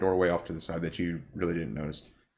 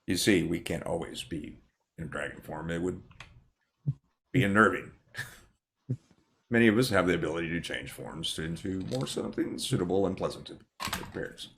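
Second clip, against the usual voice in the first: lightly voiced dragon lady.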